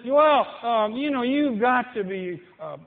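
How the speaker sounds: lightly mock the persuader; mock peer pressure. Preacher mimics a friend urging drink, mildly mocking. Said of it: "Somebody says".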